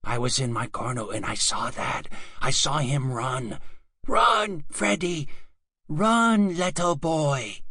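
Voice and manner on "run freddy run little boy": calling out. Acted. Calling out to fleeing boy.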